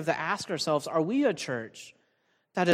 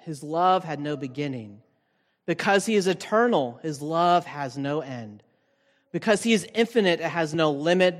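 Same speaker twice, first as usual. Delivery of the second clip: 1 formal quote reading. Acted. Reads theologian's quote.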